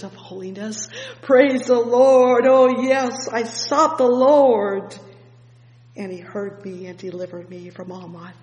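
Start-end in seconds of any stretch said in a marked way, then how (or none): 1.2-5.0 louder, slowed, drawn-out praise; fervent slow preaching. Acted. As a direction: lean into every word, slow and ringing. Preacher builds on psalm.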